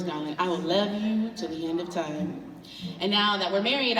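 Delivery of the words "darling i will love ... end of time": a hint of a romantic husband. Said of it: "he'd say".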